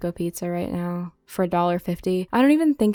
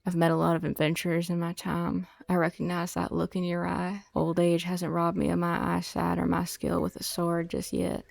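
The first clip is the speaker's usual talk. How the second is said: lightly voiced grizzled swordsman; old adventurer voice; 4 dB quieter than usual.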